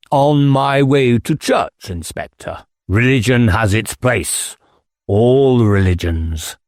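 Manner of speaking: squire, unhurried and a touch smug. Acted. Squire brushing off the inspector's question, unhurried.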